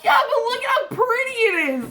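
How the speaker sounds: very high, loud delighted squeal; gushing enthusiasm. Retold or imitated. Cheering up someone complaining about snow, gushing.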